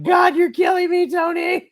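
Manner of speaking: high-pitched, loud wail of protest; exasperated fan yelling at the boss; mock anguished shout. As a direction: shout it out high, as if pushed past your limit. Retold cry to the booker.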